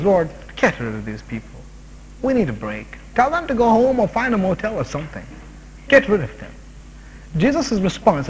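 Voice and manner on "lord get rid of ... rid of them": weary dismissal. Retold or imitated. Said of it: "Their attitude was".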